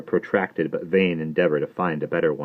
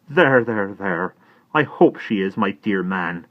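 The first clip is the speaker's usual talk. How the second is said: distracted Miss Pross; 2 semitones higher, 4 dB louder, slower than usual. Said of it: "cried the distracted Miss Pross".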